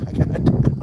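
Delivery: loud whispered repeat of the waitress; hissed repeat. Retold or imitated. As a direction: hiss it back hard and loud. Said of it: "And she's like".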